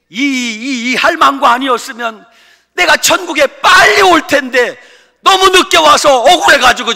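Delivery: high, loud crying complaint; hammed-up grandpa crying out in frustration; aggrieved old man shouting. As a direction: wail that he came too late. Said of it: "할아버지가 이러는 거예요".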